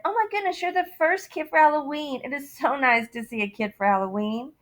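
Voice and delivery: starts high and gushing, settles down; lightly voiced cheerful neighbor; delighted greeter. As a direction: gush over the first kid. Big man greets trick-or-treater.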